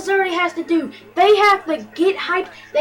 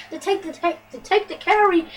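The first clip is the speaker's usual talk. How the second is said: tripping over the words; stuttering. Real, not acted. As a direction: stumble and restart the phrase. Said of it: "fast-paced that I'm stuttering".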